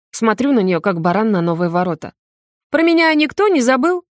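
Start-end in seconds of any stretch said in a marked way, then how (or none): 2.7-4.0 loud, high indignant shout; a mother's outraged cry. A narrator's reading. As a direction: yell to be noticed. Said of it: "кричит мама".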